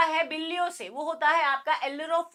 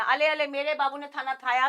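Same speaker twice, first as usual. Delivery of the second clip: put-on baby talk. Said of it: "अले अले से याद रखना".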